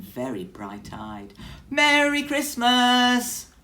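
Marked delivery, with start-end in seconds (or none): 1.7-3.5 very high, slow, loud little mouse cry; high squeaky mouse voice full of cheer; excited squeaky mouse. Acted. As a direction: cry out a merry greeting as a tiny mouse. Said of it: "cried Mouse".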